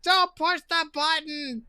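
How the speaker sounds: high, slow gargoyle voice; gargoyle warning. Acted. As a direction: warn them as a gargoyle, stretching the words. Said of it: "Gargoyle eight".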